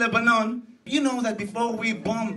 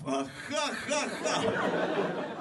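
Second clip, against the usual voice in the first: mock Putin laugh; 3 semitones lower, 7 dB quieter, much slower than usual. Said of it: "doing laugh".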